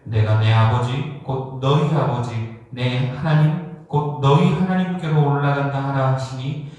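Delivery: measured, even reading of scripture; solemn Bible recitation. Acted. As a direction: read the verse out formally. Reads the scripture passage aloud.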